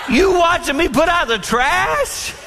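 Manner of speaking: high, slow, laughing question; laughing disbelief. Retold or imitated. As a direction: laugh through the words in disbelief. Teasing wife back while laughing.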